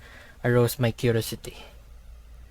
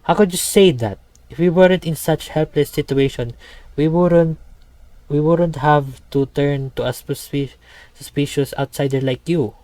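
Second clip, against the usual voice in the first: raised, upset protest; indignant; 3 semitones higher, 4 dB louder than usual. Acted.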